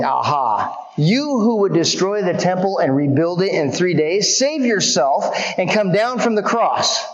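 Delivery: a touch of a passerby scoffing; deriding taunt. Retold or imitated. Passersby deriding Jesus on the cross, mild mocking jeer. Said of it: "derided him".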